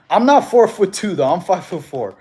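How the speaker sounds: real amused objection; laughing protest. Real, not acted. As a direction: protest the joke while cracking up. Laughing protest at height joke.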